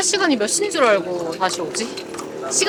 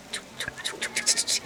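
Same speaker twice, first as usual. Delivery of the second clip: light pattering rain sounds; quick run of little rain noises; imitated gentle rain; 10 dB quieter than usual. Shown as a demonstration. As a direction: patter the syllables softly like drizzle. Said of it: "이게 아니고".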